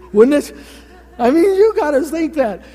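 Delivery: laughing high and bright as he talks; real delighted laugh through the words; chuckling at the thought of the pigs. Real, not acted. Delighted by the pig story.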